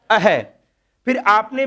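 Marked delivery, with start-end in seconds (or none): 0.1-0.4 अह said as a breathy a-ha echo; demonstrating the visarga sound; visarga sound demo. Shown as a demonstration. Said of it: "किसकी ध्वनि आ रही है".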